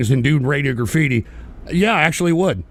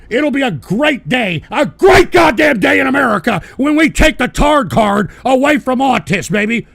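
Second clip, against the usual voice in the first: rant; 4 semitones higher, 4 dB louder than usual. Real, not acted. Ranting proclamation.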